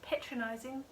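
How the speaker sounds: "patronizing" as PAY-tronizing, rising in question; questioned odd pronunciation. Retold or imitated. Vlogger questions their own slip, "patronizing" as a rising PAY-tronizing. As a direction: echo "patronizing" softly with a long "pay", puzzled. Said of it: "What am I, New Zealander?".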